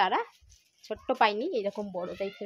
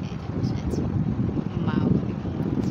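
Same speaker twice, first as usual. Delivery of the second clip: breathy whisper beside a sleeping mother; 4 semitones lower, 5 dB louder than usual. Real, not acted. Whispering to viewers while mother sleeps nearby. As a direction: whisper it so no one wakes. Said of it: "আস্তে আস্তে কথা বলছি".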